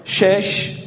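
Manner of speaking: teacher counts aloud for the class; loud group count. Shown as a demonstration. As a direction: call each number out to the class. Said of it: "همه با هم با صدای بلند".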